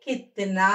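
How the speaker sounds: కిత్నా with short kit and long naa; firm model of కిత్నా, last syllable stretched; pronunciation demo. Shown as a demonstration. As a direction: hold the final aa of కిత్నా. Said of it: "దీన్ని ఏమని పలకాలి".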